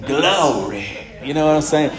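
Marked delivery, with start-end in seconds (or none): 0.0-0.9 "Glory" drawn out in an African-American preacher's accent; African-American accent, "Glory" stretched to "Glow-ry". Shown as a demonstration. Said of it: "say it with a slightly African-American accent".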